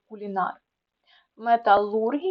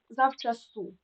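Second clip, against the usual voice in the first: завчасу stressed on the final СУ; stress on last syllable. Shown as a demonstration. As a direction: say завчаСУ, leaning on СУ. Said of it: "Наголос на останній склад".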